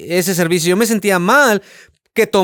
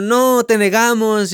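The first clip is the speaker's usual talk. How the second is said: higher, drawn-out mock wail; acted-out lament, pitched up; imitated crying plea; 5 semitones higher, slower than usual. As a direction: plead slowly, as if crying. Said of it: "otros llorando diciendo".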